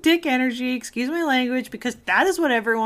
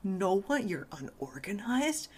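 soft, lower self-critical murmur; voicing the harsh inner critic softly; 3 semitones lower, 6 dB quieter than usual. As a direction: say it quietly to yourself.

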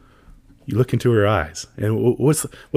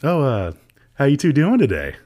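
mock waiter greeting, rising to louder and higher; chirpy server; 4 semitones higher, 4 dB louder than usual. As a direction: play an overeager waiter checking on the table. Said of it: "turn to the server and be like".

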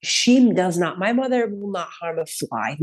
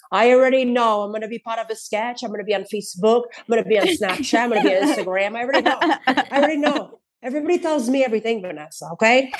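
higher, put-upon mom voice; mimicked mother; 4 semitones higher, faster than usual. Mother tells daughter she knows she'll be in a sketch, mock put-upon. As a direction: lightly imitate a mother who sees it coming. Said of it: "she'll say things with an accent sometimes".

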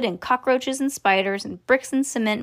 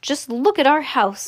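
higher, pained exclamation; dismayed cry; 5 semitones higher than usual. Acted. Mister Bucket sees the wrecked house, dismayed cry. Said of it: "cried poor Mister Bucket".

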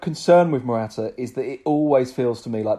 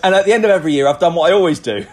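lightly voiced player, a touch louder; a hint of a proud footballer speaking, a bit louder; Barry Aspas quote; 4 semitones higher, 5 dB louder, faster than usual. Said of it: "And he goes".

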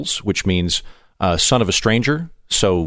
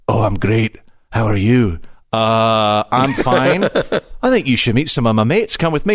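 lightly voiced menacing-but-friendly Scot; seemingly homicidal Scot; 2 semitones lower, slower than usual. Scot inviting a visitor to meet his mates, lightly menacing. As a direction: offer friendship with a hint of threat. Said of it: "they seem homicidal".

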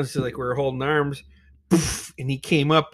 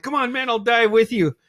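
high-pitched encouragement; eager coaxing; 8 semitones higher than usual. Retold or imitated. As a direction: imitate a buddy talking you into it. Friend's retold coaxing.

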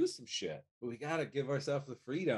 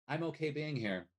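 calm self-reassurance; 5 semitones lower than usual. Shown as a demonstration. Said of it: "Be like".

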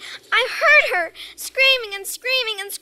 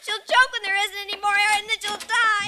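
distraught plea; faster than usual. Acted. Girl distraught, pleading fast.

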